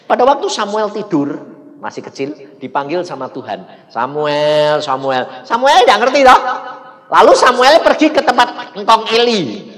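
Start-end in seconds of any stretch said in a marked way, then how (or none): 3.9-5.4 loud call across the room; a louder summoning call; calling out a name. Acted. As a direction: call his name to wake him. God calls the sleeping boy.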